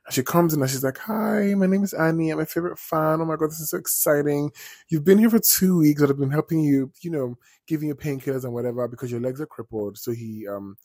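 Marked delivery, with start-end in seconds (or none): 1.0-10.0 high, bubbly over-eager fan; gushing fan nurse. Retold or imitated. Annie gushing to the waking author, high and bubbly. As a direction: gush like a thrilled superfan nurse.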